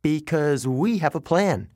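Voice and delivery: a shaky nervous voice, trying to sound sure; nervous bravado with a tremble; frightened satyr forcing confidence; trembling. Acted. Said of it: "trembling next to me".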